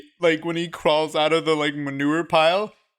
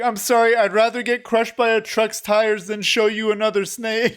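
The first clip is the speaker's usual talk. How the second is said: high fake-tearful apology; lightly hammed-up crying; mock crying; 5 semitones higher than usual. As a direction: ham up a pretend apology. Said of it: "pretending to cry".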